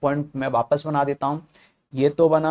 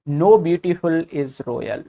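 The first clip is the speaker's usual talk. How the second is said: slow dictation; much slower than usual. Shown as a demonstration. Teacher reading the statement slowly.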